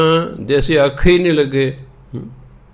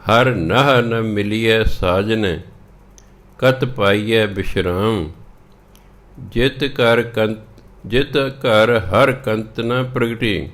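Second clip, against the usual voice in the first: slow, measured Gurbani reading; scripture recitation; slower than usual. Acted. Teacher reading the shabad to learners, slow recitation. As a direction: recite each line slowly, drawing out the words.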